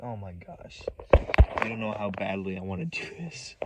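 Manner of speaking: low and barely voiced, aching to act; hushed intensity. Real, not acted. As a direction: confess a burning urge under the breath. Confiding revenge urge after long pause.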